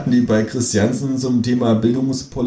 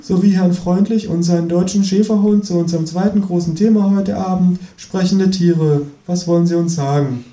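TV host voice; 6 semitones higher than usual. Acted. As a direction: introduce the guests on air. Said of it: "fährt die Frau fort".

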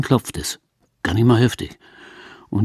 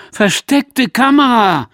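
shout; 9 semitones higher, 4 dB louder, slower than usual. Acted. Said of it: "und ich schreie".

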